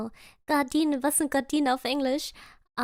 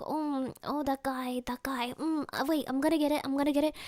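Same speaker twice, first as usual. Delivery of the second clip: soft, hesitant mock thinking aloud; imitated racking of brains, under the voice; retold struggling guesser; 7 dB quieter, faster than usual. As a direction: grope quietly for the answer. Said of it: "And he's like".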